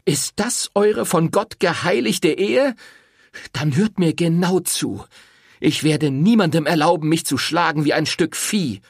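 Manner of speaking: enraged woman accusing the priest; furious. A narrator's reading. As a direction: spit out the family's shame. Rosetta confronts the priest.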